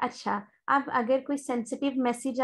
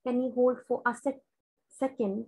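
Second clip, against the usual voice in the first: slow, gentle request to hold; polite; much slower than usual. Shown as a demonstration. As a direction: ask the caller kindly and unhurriedly to wait. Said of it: "बहुत politely उसे कहना है". (धीरे और विनम्रता से hold के लिए पूछना)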